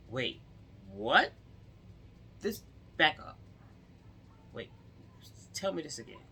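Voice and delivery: a stunned cop making her repeat it; shocked officer. Retold or imitated. Officer asking her to repeat, mock shocked.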